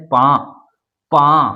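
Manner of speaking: पा with nasalised vowel, no extra time; chandrabindu demo. Shown as a demonstration. Teacher showing chandrabindu sound to students. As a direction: nasalise पा within the syllable. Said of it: "अलग से इसके लिए समय लगाने की कोई ज़रूरत नहीं".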